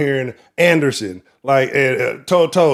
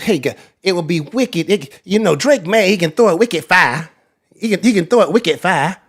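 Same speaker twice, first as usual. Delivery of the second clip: higher-pitched, hammed-up Boston accent; terrible Boston accent; 6 semitones higher than usual. Sports host imitating Patriots announcers, bad Boston accent. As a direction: badly fake an excited Boston announcer. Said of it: "that was a terrible Boston accent".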